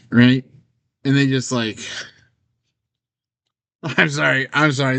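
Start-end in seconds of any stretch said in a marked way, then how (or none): 3.8-5.0 laughing through an apology; trying to stop laughing while saying sorry; sheepish laugh at a grim story. Real, not acted. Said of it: "laughter at a funeral".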